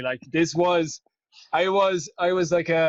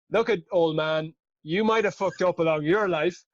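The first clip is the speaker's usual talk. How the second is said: cocky inner voice; 4 semitones higher than usual. Retold or imitated. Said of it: "Inner story at the time was".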